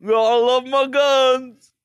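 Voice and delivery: loud, high, slow hammed-up American drawl; mock American. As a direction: bellow it like a proud gun-loving American. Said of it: "Americans. Just like".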